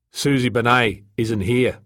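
firm, slow correction; hard-edged. Acted. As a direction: state it slowly with a hard edge. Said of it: "His voice had a hard edge to it".

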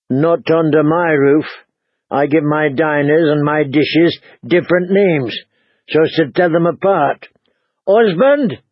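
lightly voiced stern innkeeper woman; a hint of a bossy landlady; innkeeper's wife.

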